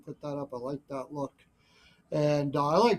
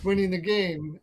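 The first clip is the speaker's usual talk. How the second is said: laughing through the words; 3 semitones higher, 6 dB louder than usual. Real, not acted. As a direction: chuckle while finishing the line. Laughing at own joke.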